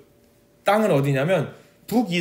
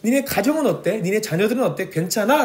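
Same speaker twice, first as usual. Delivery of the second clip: mild God's voice; 3 semitones higher than usual. Retold or imitated. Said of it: "우리한테 물어보고 있으신".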